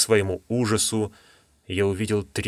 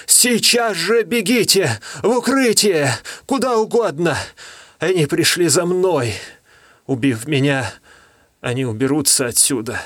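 urgent shouting fading; 7 semitones higher than usual. Acted. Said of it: "крикнул он".

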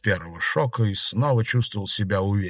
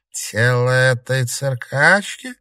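contemptuous; 4 semitones higher, 5 dB louder, slower than usual. A narrator's reading. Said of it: "презрительно произнесла тень".

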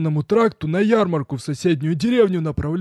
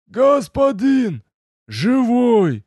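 high, loud, slow cry of sincere joy; joyful shout; 10 semitones higher, 5 dB louder, much slower than usual. A narrator's reading. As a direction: shout out in pure relief. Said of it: "отчётливо слышались искренняя радость".

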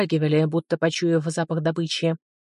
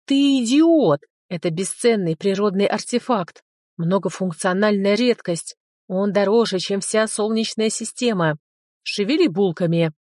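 dragon roar like a siren; 2 semitones higher than usual. Acted. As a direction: bellow at him like a fire siren. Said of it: "взревел дракон, словно пожарная сирена". (рёв дракона, как пожарная сирена)

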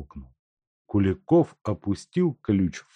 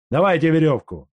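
shout; 8 semitones higher, 7 dB louder, faster than usual. Acted. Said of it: "и крикнул".

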